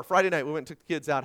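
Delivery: ordinary talk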